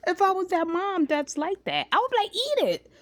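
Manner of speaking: high, loud laughing; laughing pretend mom. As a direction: play a careless mom through laughter. Imagining a careless mom, laughing.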